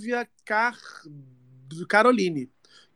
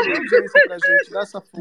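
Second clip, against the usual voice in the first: rallying call; 12 semitones higher, 6 dB louder than usual. Real, not acted. Host rallies listeners for audience.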